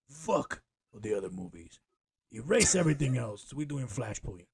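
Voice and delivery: a hint of a dismissive boss; CEO voice. CEO scrapping the other movies, dismissive boss voice. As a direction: brush the question off like a lightly played executive. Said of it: "that was my C E O voice".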